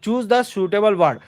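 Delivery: very slow, word-by-word reading of the exercise; slow read-aloud. Shown as a demonstration. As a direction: read the sentence out slowly for the class. Teacher reads the next question.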